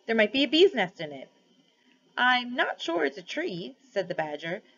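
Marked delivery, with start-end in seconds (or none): 0.1-1.3 hopeful bear. A narrator's reading. Bear hoping for honey. 2.2-3.8 slow thoughtful badger. A narrator's reading. Badger pondering.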